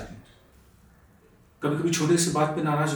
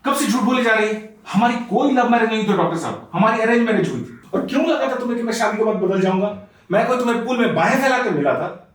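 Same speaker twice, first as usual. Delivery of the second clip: mildly raised, indignant protest; indignant outburst; 3 semitones higher than usual. Acted. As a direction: break in and rebut her story. Husband explodes at wife's account. (झुँझलाकर विरोध)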